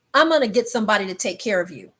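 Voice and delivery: quick, even imitation of the man; matter-of-fact quote. Man on the stairs to someone, quick and even. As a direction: say it fast and contained, as he did. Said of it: "that's exactly how he said it".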